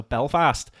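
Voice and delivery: Belfast said the Northern Irish way; Northern Irish accent. Shown as a demonstration. Showing friends the one word possible, Northern Irish accent. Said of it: "in a Northern Irish accent".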